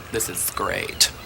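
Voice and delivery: hushed aside. Retold or imitated. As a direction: drop the voice for the quote. Quote mocked in a hushed voice.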